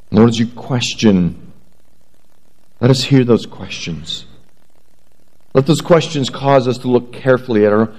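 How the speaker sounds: earnest pastoral prayer voice. Acted. Pastor praying over the congregation, earnest prayer. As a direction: pray over the congregation humbly. Pastor prays before sermon.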